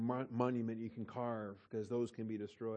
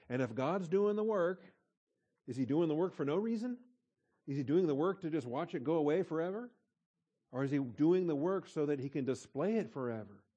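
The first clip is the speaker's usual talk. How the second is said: preaching build; 4 semitones higher, 6 dB louder than usual. Real, not acted. Preacher driving rhetorical questions home.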